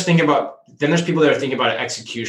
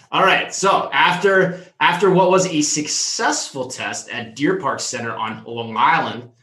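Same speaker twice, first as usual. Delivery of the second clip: put-on Long Island accent; 3 semitones higher than usual. Podcast host reads the story to his co-host in a mock Long Island accent. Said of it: "I tried my Long Island accent".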